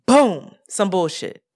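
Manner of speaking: unimpressed deadpan; dry, slow disgust. Real, not acted. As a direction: let the disgust sink in slowly. Exasperated about sudden bills.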